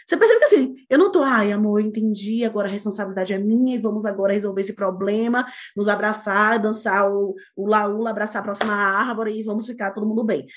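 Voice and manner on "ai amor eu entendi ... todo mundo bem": lower, even, sugary parody of peacemaking; put-on conciliatory calm; mock enlightened partner. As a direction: recite it like a parody of serene reconciliation. Mocks an over-enlightened conciliatory partner.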